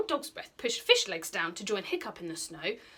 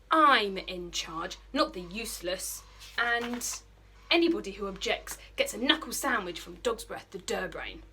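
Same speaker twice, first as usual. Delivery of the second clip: bossy bully Snotlout; 3 dB louder than usual. Acted. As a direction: lay down the law to the boys. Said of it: "in a menacing fashion".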